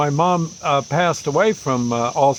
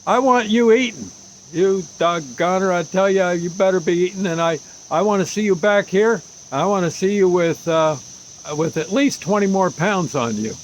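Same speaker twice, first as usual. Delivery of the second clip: lightly voiced blunt Army doctor, higher; old Army doctor; 3 semitones higher than usual. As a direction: insist the patient put on weight. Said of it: "it's an old Army doctor".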